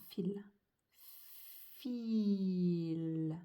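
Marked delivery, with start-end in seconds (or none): 1.8-3.4 FIL in one long unbroken glide, falling; continuous stretched sounds. Shown as a demonstration. Teacher writing without stopping, stretched unbroken FIL. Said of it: "Je ne m'arrête pas en écrivant".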